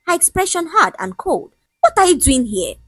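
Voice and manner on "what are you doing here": sharp. A narrator's reading. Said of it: "her voice sharp enough to slice".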